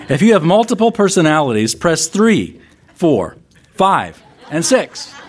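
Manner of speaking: upbeat recorded hotline greeting; phone menu voice. Acted. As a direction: read it like an automated voicemail menu. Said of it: "this is what you would hear".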